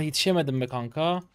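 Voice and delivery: ordinary delivery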